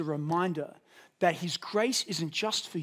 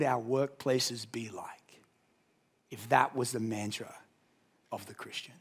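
hushed whisper; 7 semitones lower, 5 dB quieter than usual. Real, not acted. Whispered rhetorical question in sermon.

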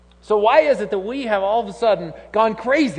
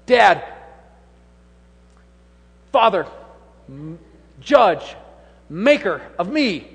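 son's mock-formal greeting; 6 semitones higher, 6 dB louder than usual. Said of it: "he says".

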